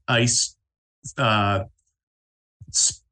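ordinary delivery

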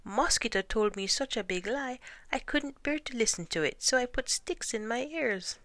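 high-pitched protesting iguana; high, defensive creature. A narrator's reading. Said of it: "said the iguana".

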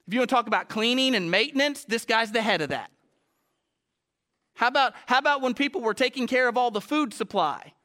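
full-force preaching. Acted. Preacher pressing the church about excuses, loud and fervent. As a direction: preach it hard to the congregation.

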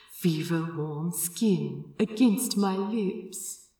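softly recalling a lover's touch; dreamy murmur. A narrator's reading. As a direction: let it drift out like a daydream. Dreamy remembered lover's words.

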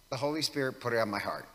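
fast, dismissive mock of his phrase; quick sarcastic parroting. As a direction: rattle it off like a tired excuse. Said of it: "I am mocking that".

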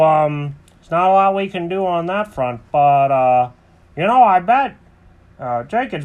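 lightly voiced cartoon buddy; easygoing character voice with lifted, punched openings; Alfred the helpful pal. Friend suggests building in the closet, lightly put-on voice. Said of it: "And Alfred goes".

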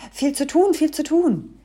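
high, loud dwarf voice; busy dwarf. A narrator's reading. Busy dwarf behind the door, high and hurried-sounding. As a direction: chirp it busily, high and loud.

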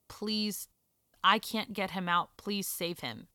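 soft, pleading, hushed; quiet retold plea.

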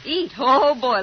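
light up at the thought of food; eager. Acted.

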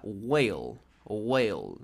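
Whale repeated as a low, careful wel; teacher repeating Whale so students hear it, careful; model pronunciation. Shown as a demonstration. Repite Whale con cuidado. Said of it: "pero mínimo escúchala".

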